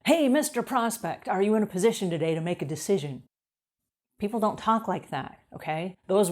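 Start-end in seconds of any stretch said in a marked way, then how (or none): 0.1-3.2 salesman script. Retold or imitated. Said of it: "I learned all the word tracks".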